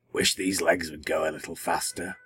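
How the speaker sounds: lightly voiced plodding dinosaur; a hint of a dim creature. A narrator's reading. Brontosaurus thinking aloud.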